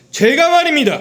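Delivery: very loud, high projected stage voice. Explaining how theater actors must speak to the audience: loud, projected stage voice. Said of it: "뭐 이런 식으로 얘기를 해야 되는 거예요".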